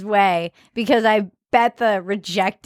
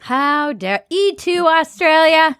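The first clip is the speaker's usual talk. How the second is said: hammed-up, drawn-out indignation, higher; mock outrage; 7 semitones higher, 4 dB louder, slower than usual. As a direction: declaim it slowly like a betrayed tragedian.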